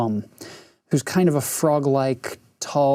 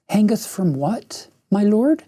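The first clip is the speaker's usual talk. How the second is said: witch voice; 6 semitones higher than usual. Acted. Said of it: "cooing softly".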